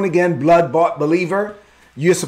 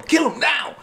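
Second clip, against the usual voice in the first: high shouted kill him now; urgent shout; 9 semitones higher, 4 dB quieter than usual. Retold or imitated. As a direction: shout it like men egging on. Men urging David to kill.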